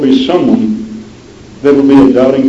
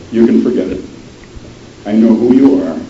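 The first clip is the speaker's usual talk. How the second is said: Burnside; 3 semitones lower than usual. Acted. Burnside unmasking Lottie.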